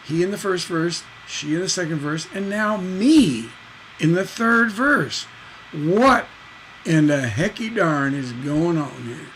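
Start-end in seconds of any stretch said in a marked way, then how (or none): 2.3-5.3 slow, drawn-out emphasis on the surprise; playful astonished slow build; dramatic reveal. Pretend. Dramatizing the switch to me. 5.7-9.3 playful exclamation of disbelief; hammed-up puzzled outburst; mock bafflement.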